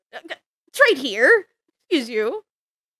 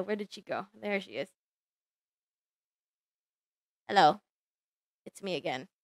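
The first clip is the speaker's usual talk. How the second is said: scientist character; 4 semitones lower than usual. Acted. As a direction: play the shy creator introducing herself. Plays the scientist who created Marjorie.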